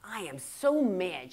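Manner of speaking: slow, mock-mad grumble; Yosemite Sam. Daughter imitating her mother mad again, slow mock anger. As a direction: drag out each word in understated comic anger. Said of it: "of course she gets mad again".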